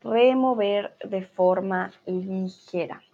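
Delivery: "Remover de forma ligera" read out slowly; slow dictation for the class; slow, deliberate read. Shown as a demonstration. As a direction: spell out each word of "Remover de forma ligera" at a slow pace. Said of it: "repeats step slowly".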